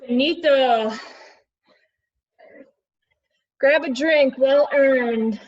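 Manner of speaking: loud cheerful wrap-up; coach calling out. Real, not acted. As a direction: call the break out loud. Instructor calling end of set.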